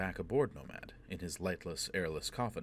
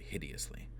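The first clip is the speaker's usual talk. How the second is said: breathy eerie whisper; 4 semitones lower, 7 dB quieter than usual. A narrator's reading. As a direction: drop to a whisper. Narration dropping to whisper.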